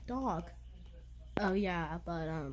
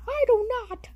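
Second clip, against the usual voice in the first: higher, louder mouse protest; indignant mouse; 7 semitones higher, 5 dB louder than usual. Pretend. Jerry protests to Tweety, higher and louder. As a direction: snap back as Jerry. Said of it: "you sound like a lower pitch".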